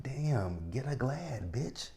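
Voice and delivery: playful high-pitched snark; sassy retort. Retold or imitated. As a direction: toss it off up high with attitude. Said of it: "I'm like".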